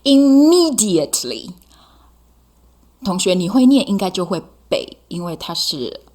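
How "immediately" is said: Immediately said quick, high and loud. Shown as a demonstration. Teacher shows students the quick Immediately, loud and high. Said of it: "所以你要念得还蛮快的".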